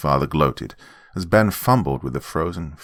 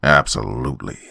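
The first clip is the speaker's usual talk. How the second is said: with relish; 2 semitones lower than usual. Acted. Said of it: "said with relish".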